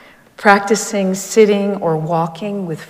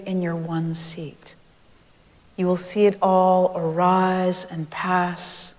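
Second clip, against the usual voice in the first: quoting a meditation master; 5 dB louder than usual. Retold or imitated. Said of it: "here are his directions".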